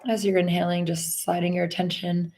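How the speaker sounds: slow body-scan guidance with long pauses; guided meditation. Acted. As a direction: lead them unhurriedly through the body, phrase by phrase.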